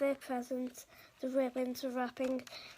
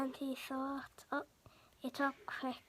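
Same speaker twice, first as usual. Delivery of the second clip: whisper; 7 dB quieter than usual. Acted. Whispered line in the story.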